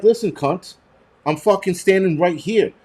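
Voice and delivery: reenacted irritated protest; retold angry retort. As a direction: act out telling someone off without shouting. Acted retort in store quarrel.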